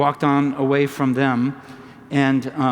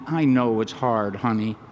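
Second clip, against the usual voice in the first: a mother comforting her fussing son, tenderly; compassionate. Retold or imitated. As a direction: soothe a crying toddler tenderly. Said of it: "in a very compassionate tone".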